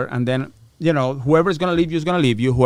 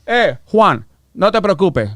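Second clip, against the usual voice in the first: smooth attorney; 2 semitones higher, 6 dB louder than usual. Retold or imitated. Attorney voiced in story.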